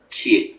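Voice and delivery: "Chie" as a Mandarin fourth-tone syllable. Shown as a demonstration. Teacher repeating the Chinese word for students, fourth tone on "Chie". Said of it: "es en cuarto tono".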